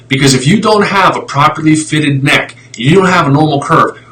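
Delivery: getting worked up about needless wrist surgery; fired up. Real, not acted. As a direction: vent the frustration hard, building. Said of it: "I got a little fired up there".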